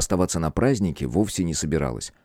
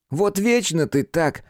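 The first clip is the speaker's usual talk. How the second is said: slow, higher disgruntled grumble; grumbling; 11 semitones higher, slower than usual. Acted. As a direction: grumble it at your friend. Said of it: "недовольно буркнул приятель".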